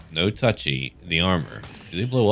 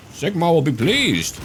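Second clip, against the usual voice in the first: slow, higher zealous space marine proclamation; gruff space marine; 9 semitones higher than usual. Acted. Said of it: "That's like my usual Space Marine voice".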